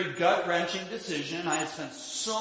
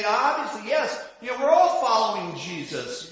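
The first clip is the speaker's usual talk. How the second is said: smug churchgoer; 2 semitones higher, 4 dB louder than usual. Retold or imitated. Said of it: "most people in the church will automatically say".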